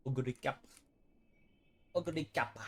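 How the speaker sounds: lightly imitated anime announcer catchphrase; anime commentator. Gamer mimics the anime's horse name call, mock announcer. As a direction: mimic how the anime says a name, held back. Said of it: "why they say ogre cap the way they do".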